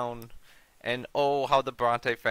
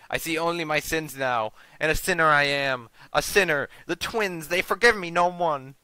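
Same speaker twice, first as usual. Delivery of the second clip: higher, louder, frantic fanatic; mad grandfather raving; 5 semitones higher, 5 dB louder than usual. Acted. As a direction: rave like a man terrified for his soul. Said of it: "he's basically gone mad at this point".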